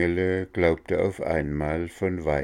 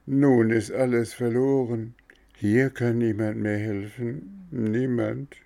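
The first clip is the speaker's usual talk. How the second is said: higher, pleading lament with niemand rising; 6 semitones higher than usual. Acted. Puppet alone in the dark belly, lamenting. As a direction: moan it hopelessly. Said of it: "jammerte er".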